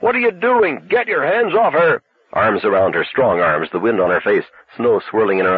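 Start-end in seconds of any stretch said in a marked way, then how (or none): 0.0-2.0 high, stern shout of alarm; stern thundering. A narrator's reading. Arnie yelling at the hitchhiker, stern thundering shout. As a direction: bark it out like a furious god. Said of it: "Arnie's voice thundering sternly".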